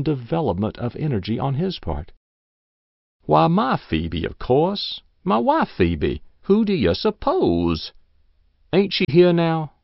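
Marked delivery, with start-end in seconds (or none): 3.3-9.7 put-on insistent old man. Old man insists on his wife.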